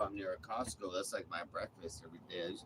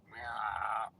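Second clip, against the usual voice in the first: mock meow. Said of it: "He got meowing".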